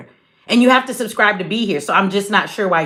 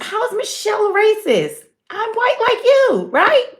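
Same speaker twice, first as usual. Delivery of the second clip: much higher voice, playing a white woman; mock white woman, pitched way up and sweet; 11 semitones higher than usual. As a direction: put on a high white-lady voice to turn it back on him. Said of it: "just pretend my white side said it to you".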